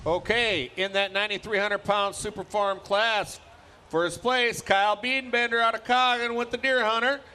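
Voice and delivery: live announcer calling results; tractor pull announcer. Acted. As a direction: call it over the PA.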